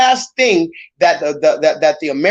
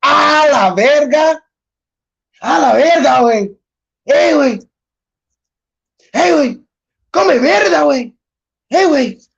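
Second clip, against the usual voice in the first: mock Spanish cursing; 6 semitones higher than usual. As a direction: play an angry man cursing someone out in Spanish. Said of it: "That's another one".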